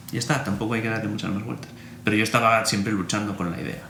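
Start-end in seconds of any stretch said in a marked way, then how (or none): none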